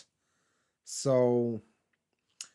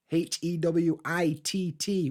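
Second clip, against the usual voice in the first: spelled out slowly; 3 semitones higher, slower than usual. Shown as a demonstration. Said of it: "with an extra T".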